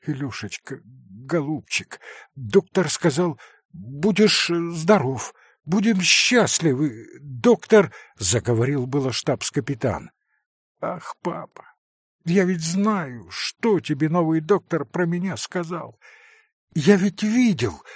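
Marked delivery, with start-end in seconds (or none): 0.1-7.9 comforting. Acted. Father comforts dying son. 10.8-17.8 put-on whispered start, then high child's voice; a sick boy who knows; child's exclamation. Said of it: "воскликнул Илюша".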